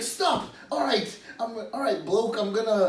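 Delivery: high, hammed-up British bloke accent; a clumsy mock British accent; imitating a bad British accent. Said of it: "so he did a British one".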